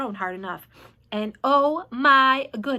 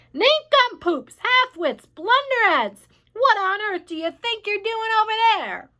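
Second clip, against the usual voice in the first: much higher, louder jeering; yelling insults; 10 semitones higher, 6 dB louder than usual. A narrator's reading. Centipede taunting the cloud men, high and yelling. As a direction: keep hurling abuse at full volume. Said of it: "he yelled".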